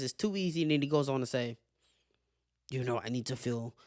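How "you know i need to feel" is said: lightly imitated fighter, softer; soft, measured impression of a fighter; Yuri's voice. Imitating the fighter after his interview, lightly mimicked voice. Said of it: "I gotta say it in the voice".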